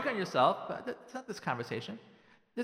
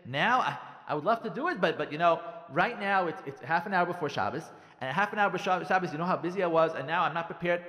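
louder, halting mock excuses; defensive; 5 dB louder than usual. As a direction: make flustered excuses with raised voice. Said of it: "when you get defensive".

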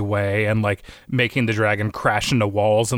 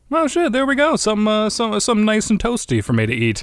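much higher, cartoonish greedy dragon voice; gleeful hungry monster eyeing dinner; 11 semitones higher than usual. Giant dragon spotting the burning village, much higher gleeful voice.

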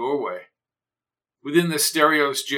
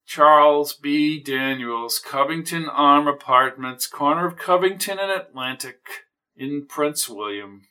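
slow deliberate. Acted. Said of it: "spoke slowly".

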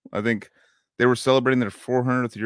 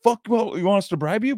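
high, loud outraged yell at the cop; imitating loud Luke; 9 semitones higher than usual. Retelling Luke scaring off the bribing cop, loud high yell. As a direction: play Luke shouting down a crooked cop, pitched way up. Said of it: "his voice is really loud".

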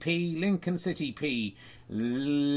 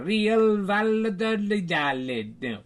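put-on Spanish accent; 5 semitones higher, 4 dB louder, slower than usual. Spanish score again.

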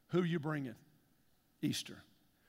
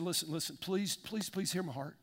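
softer, heartfelt please, please; soft pleading; 2 semitones lower, 6 dB quieter than usual. Retold or imitated. Pastor pleading with his radio friend, soft begging. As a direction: beg gently from the heart.

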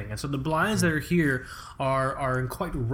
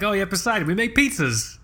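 mock company owner; 6 semitones higher, 3 dB louder than usual.

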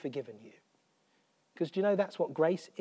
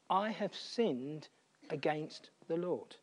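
hushed confession; 7 dB quieter, slower than usual. Retold or imitated. Quoting David's confession softly.

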